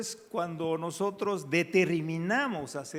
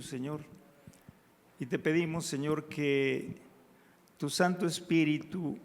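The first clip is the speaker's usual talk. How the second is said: hushed pleading prayer to the Father; 3 semitones lower than usual. Acted. Congregation prayer led aloud.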